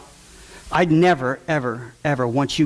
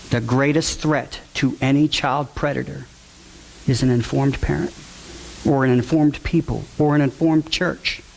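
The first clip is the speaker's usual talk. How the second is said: dictation. Real, not acted. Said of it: "write that down".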